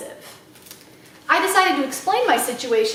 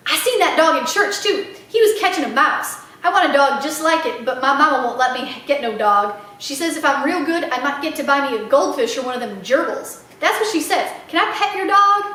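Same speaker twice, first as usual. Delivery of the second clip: put-on little girl voice. Little girl Sweetie Pie.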